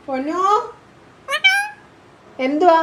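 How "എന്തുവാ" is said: louder, higher challenge to the pet bird; changed, sterner voice. Shown as a demonstration. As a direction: demand it sharply of a sulky pet. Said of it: "എന്റെ സ്വരം change ആവുമ്പോ".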